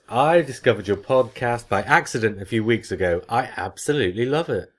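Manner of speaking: animated read-aloud of a letter; reading listener email. Acted. Host reads a fan's email on the podcast, animated read-aloud. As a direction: read it out with lively, emphatic swings.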